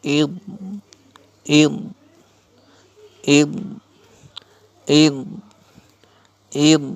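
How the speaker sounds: "id" with a firm, voiced dad; drilled dad "id". Shown as a demonstration. Teacher shows alif zer dad jazm, drilling "id". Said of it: "উচ্চারণ".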